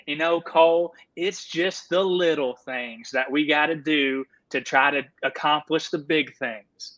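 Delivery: a hint of a folksy coach; calm coach wisdom, lightly done; Coach Limbaugh impression. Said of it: "you have to kinda deliver it more like this".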